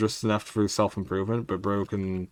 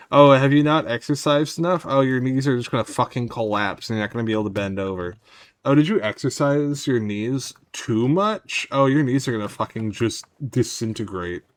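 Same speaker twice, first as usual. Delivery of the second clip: mock-taunting knees, louder; voicing the knees; 2 semitones higher, 5 dB louder than usual. Knees threatening their owner over exercise, mock-taunting louder voice. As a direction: taunt like a spiteful body part.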